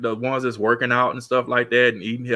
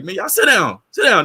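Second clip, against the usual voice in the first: mock stern dad; 8 semitones higher, 4 dB louder than usual. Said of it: "I'd be like".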